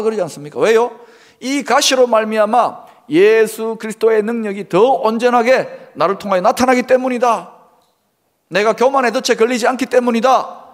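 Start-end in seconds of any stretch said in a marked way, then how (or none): 1.4-10.7 loud, raised declaration of faith; preacher voicing Paul's confession at full volume; bold confession. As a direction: proclaim it like a triumphant confession. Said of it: "이렇게 고백하지 않습니까".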